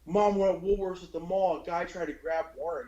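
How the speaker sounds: put-on high, urgent boy voice; a touch of a scared child; kid on phone. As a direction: report it to mom in a hurry. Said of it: "And I'm like".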